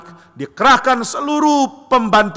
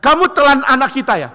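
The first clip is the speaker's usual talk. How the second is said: shocked; 8 semitones higher, 5 dB louder than usual. Acted. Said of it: "Istrinya kaget".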